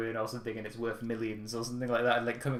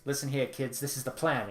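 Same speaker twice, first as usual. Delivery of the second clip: put-on Cutemon's accent; 2 semitones higher than usual. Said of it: "Cutemon's accent".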